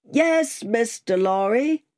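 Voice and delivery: high call, dropping on the name; calling back. A narrator's reading. Rider answers the passenger through the mist, calling back. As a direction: answer from a distance.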